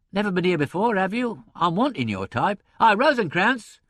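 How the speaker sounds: high, loud, blustering impresario; hectoring boss. A narrator's reading. Impresario to secretary and newcomer, hectoring. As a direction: hector the staff, then hail a find. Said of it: "his hectoring voice".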